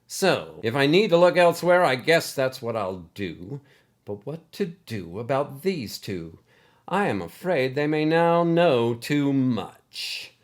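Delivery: rising irritation, pushing hard; agitated. Acted. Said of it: "Coach was getting a bit agitated".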